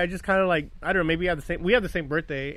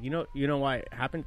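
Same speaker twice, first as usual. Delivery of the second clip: quiet, halting small talk; awkward, softly spoken re-enactment; 7 dB quieter than usual. Retold or imitated. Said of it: "Very awkwardly, just how I'm saying it".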